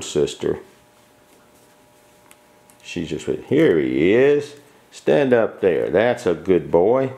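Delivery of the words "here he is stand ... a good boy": coaxing. Real, not acted. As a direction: draw it out sweetly to coax him. Coaxing puppy to stand.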